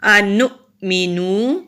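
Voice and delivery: अनुमिनु slowly, the hamza stopped sharply with a jolt; jerked hamza. Shown as a demonstration. Teacher demonstrating the sukun hamza with a jerk, slow. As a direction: snap the stop in अनुमिनु. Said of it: "यहाँ हम झटके से पढ़ेंगे".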